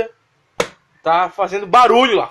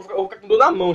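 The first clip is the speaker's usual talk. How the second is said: normal talking voice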